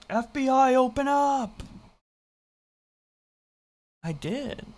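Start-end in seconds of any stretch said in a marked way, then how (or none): 0.1-1.6 FBI raid shout. Pretend. Mock police raid call.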